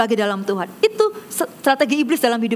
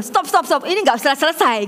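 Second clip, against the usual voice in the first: mock exasperated stop. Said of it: "mulai bertengkar".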